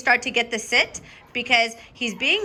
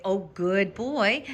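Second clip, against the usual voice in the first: praise demo; much slower than usual. Shown as a demonstration. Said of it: "and then you could say".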